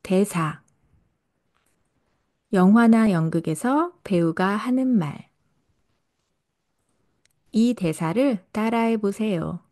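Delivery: ordinary delivery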